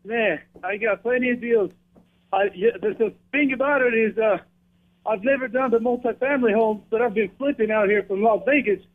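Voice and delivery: winded after the gym; breathless, still recovering; out of breath. Real, not acted. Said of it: "sorry, I'm out of breath real quick".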